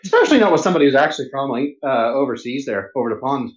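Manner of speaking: put-on Irish lilt, pitched low; leprechaun Irish accent. Hesitating when asked for Irish, in put-on Irish accent. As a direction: lay on a leprechaun's Irish brogue. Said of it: "You sound like a dickish leprechaun".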